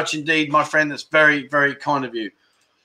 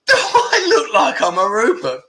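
laughing at the very idea; incredulous laugh, pitched up; amused disbelief with a laugh; 8 semitones higher than usual. Real, not acted. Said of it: "I'll tell you why I'm laughing".

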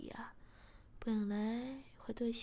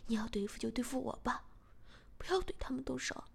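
quick frightened begging, a touch louder; frightened plea; 3 dB louder, faster than usual. Acted. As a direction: beg to spare the family. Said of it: "小贤马上害怕起来". (害怕地哀求)

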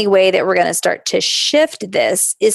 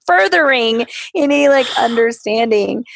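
whisper; 4 semitones higher than usual. Real, not acted. Whispered laughing aside.

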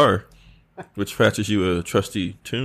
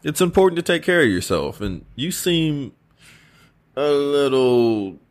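lightly raised king voice; concerned king, gently urging rest; King Arthur voice; 7 semitones higher, slower than usual. Acted.

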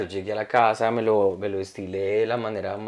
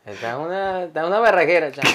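Venezuelan barber brag, a touch higher; Venezuelan accent; 5 semitones higher than usual. Retold or imitated. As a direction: show off the haircut in a Venezuelan accent. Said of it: "hace el acento".

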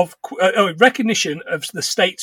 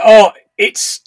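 whisper; 5 dB louder than usual. Retold or imitated. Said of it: "he says".

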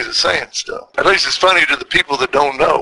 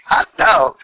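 Boston accent. Shown as a demonstration. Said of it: "say it like the Boston folks say it".

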